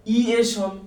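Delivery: "ইয়েশন" as a detached final chunk, i-e-shon; wrongly split word. Shown as a demonstration. Teacher trying a learner's own way of splitting it, detached chunk. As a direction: sound out "ইয়েশন" on its own, evenly. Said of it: "এইভাবে উচ্চারণ করেন".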